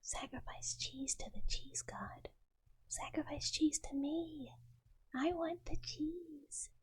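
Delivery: mock demanding. Plays cheese god demanding tribute.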